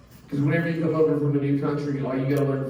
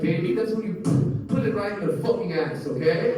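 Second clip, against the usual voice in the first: higher, gentle motherly explanation; higher tender mom voice explaining; sweet mom explaining; 4 semitones higher than usual. Retold or imitated. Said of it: "She's like".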